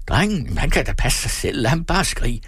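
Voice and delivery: high, exasperated retort; impatient dismissal. A narrator's reading. Peter impatiently dismisses her excuse. (utålmodig affejning i højt toneleje)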